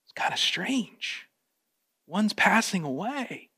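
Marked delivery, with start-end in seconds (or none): 0.0-1.3 slow, breathy whisper; whispered aside. Real, not acted. Preacher whispers a wry aside to the congregation after the joke. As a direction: let it drop to a whisper.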